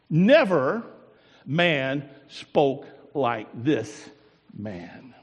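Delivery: slow, lingering on each word; awed drawn-out answer. Acted. Guards answering the priests, slow and awed. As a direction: let the awe stretch every word out.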